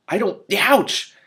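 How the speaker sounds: high cry of ouch; clawed mid word; sharp yelp of pain. Acted.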